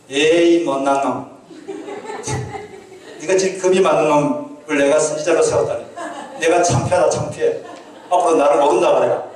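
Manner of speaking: a lightly voiced God snapping at a failed prophet; hammed-up dismissive rebuke, a laugh slipping in; mock scolding God. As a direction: scoff and scold like a disappointed master. God scolding Elijah, mock quote.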